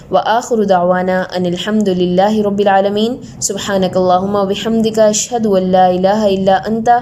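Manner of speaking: measured prayer recitation; prayerful closing. Acted. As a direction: recite the Arabic closing dua calmly. Closing dua.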